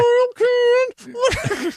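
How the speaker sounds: high mock reading; mock label voice. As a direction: read it like a cartoon label. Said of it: "mocking the can label".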